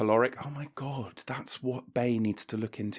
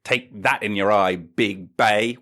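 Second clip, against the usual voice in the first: triumphant taunt; 7 dB louder than usual. Acted.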